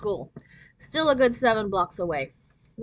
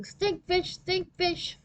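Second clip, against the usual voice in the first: high, far-off teasing chant; sing-song taunt; 9 semitones higher, much slower than usual. A narrator's reading. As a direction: chant it while running away. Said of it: "dashed down the sidewalk yelling".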